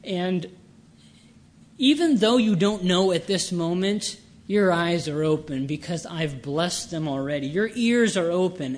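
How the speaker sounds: a touch of sovereign exultation; exultant Christ. Acted. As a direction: voice Christ's triumph with measured emphasis. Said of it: "Christ is exalting in his own sovereignty".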